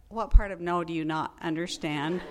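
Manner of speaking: exasperated retort. Retold or imitated. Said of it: "You didn't say that".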